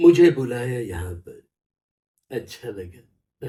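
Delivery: very slow, deliberate, measured word-by-word drawl. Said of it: "Nana Patekar धीरे".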